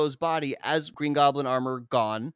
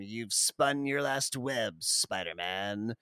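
slow, mock menacing you've spun your last web; lightly voiced gloating Goblin; quoting the Goblin's threat, slow; villain threat; 3 semitones lower, slower than usual. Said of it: "tells him".

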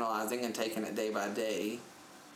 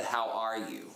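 mildly pissy retold retort. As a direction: repeat the greeting with a touch of irritation. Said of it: "Like, I got pissy with her".

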